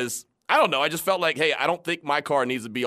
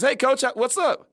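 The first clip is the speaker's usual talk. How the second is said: slow, higher, grinning hello; smiling greeting; 11 semitones higher, 4 dB louder than usual. Retold or imitated. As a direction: draw it out with a big smile. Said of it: "I got a big smile on my face".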